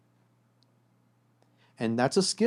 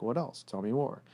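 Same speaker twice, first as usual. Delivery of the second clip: gentle prompting; 5 dB quieter than usual. Shown as a demonstration. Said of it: "You gotta say things like".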